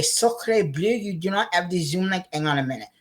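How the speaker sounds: mock French exclamation; jokey French chef voice. Mock French reply to viewer.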